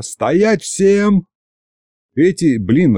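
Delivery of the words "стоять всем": high commanding shout. A narrator's reading. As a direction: order everyone to freeze. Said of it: "заорал я".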